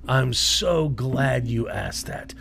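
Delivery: slow, hushed villain voice; evil voice. Pretend. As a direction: savour each word like a villain. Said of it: "That's an evil voice".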